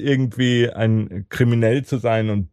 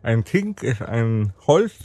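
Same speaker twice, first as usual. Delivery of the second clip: cork in mouth; 3 semitones higher than usual. Real, not acted. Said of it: "viel geiler als ich jetzt gerade".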